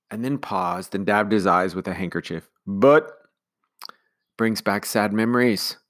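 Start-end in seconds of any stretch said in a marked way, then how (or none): 2.7-5.8 sympathetic. Acted. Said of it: "Nanny asked sympathetically".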